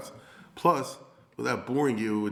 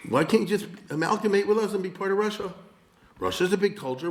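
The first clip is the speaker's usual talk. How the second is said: mock Russian official; 8 semitones higher than usual. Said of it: "That's how they talked".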